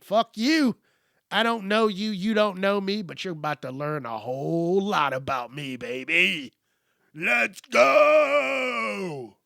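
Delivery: picking a fight. Retold or imitated. Imagined starting a bar fight.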